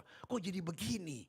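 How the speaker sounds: drawn out, stunned; slow dismayed disbelief. Retold or imitated. Preacher retelling his shock at a friend's job, slow and stunned. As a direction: let it sink in slowly.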